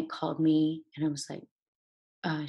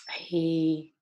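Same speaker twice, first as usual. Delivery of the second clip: choked whisper. Real, not acted. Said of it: "I'm getting".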